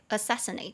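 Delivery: "assassinate" stressed on the first SASS; second-syllable stress. Shown as a demonstration. Teacher modeling the verb assassinate, stress on second syllable. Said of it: "重音节在第二音节".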